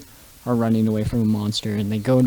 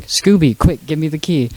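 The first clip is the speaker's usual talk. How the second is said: lightly voiced urgent plea, higher and louder; Shaggy; 5 semitones higher, 3 dB louder than usual. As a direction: hurry your friend along, retold. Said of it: "and Shaggy's like".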